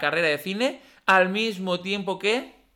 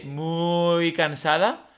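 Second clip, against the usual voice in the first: slow, drawn-out "Muy cansada" in Fizpi's manner; lightly mimicking Fizpi's stretched "Muy cansada"; imitating Fizpi; much slower than usual. Copying how Fizpi says she's tired, slowed and stretched. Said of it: "ella dice".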